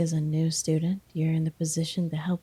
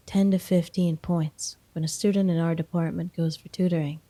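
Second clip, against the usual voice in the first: normal talking voice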